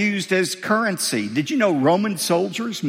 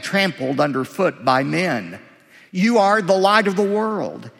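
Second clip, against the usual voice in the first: raised, measured reading of scripture. Acted. Pastor reading scripture aloud to his church, measured and raised. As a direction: read the passage out to the congregation with weight. Reads the Sermon passage aloud.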